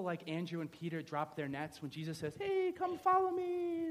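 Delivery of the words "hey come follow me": high, drawn-out sing-song call; airy caricature of an inviting call; breezy mock calling. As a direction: call out high and slow, lightly. Voices Jesus calling the fishermen.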